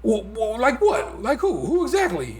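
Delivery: high, mock-baffled Trump voice, laughing at the end; hammed-up Trump dodging the question; imitating Trump. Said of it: "Joe Biden says".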